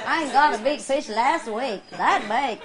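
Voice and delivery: lightly mimicked folksy neighbor; playful take on a bragging angler; neighbor impression. Speaker imitates a neighbor boasting of a catch, folksy impression. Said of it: "I talk like the people, the neighbors".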